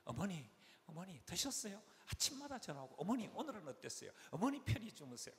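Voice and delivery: butter up the mother-in-law, mock-sweetly; fawning daughter-in-law. Sly daughter-in-law phoning her mother-in-law each morning, fawning. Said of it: "여우짓을 합니다, 시어머니에게".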